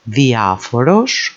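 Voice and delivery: diaphoros as thi-A-fo-ros, rising at the end; diaphoros, weight on A; stress third from end. Shown as a demonstration. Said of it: "same words being repeated here".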